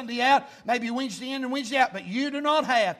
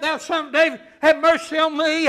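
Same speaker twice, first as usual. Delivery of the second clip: preacher's raised-voice imitation of a plea; crying out; 6 semitones higher, 10 dB louder than usual. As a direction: call out a loud plea mid-sermon. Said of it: "and he cries out".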